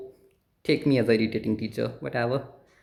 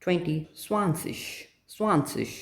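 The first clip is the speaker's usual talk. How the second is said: very slow teacher's recital; much slower than usual. Shown as a demonstration. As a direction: spell out each number slowly, one at a time. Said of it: "slow teaching recital".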